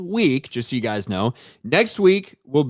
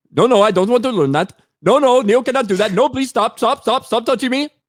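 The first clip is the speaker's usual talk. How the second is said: very high, loud put-on Indian accent; 10 semitones higher, 4 dB louder than usual. Trying out an accent on a few lines, put-on Indian accent. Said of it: "Is that a good Indian accent?".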